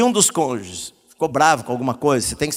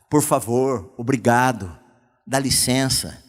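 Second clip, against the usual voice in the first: polite words; 5 semitones lower, slower than usual. Shown as a demonstration. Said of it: "Ser educado".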